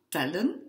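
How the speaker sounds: tellen with a brief first E; short E. Shown as a demonstration. Teacher explaining spelling to students, tellen with a short E. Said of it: "pour garder ce son court de ce E court".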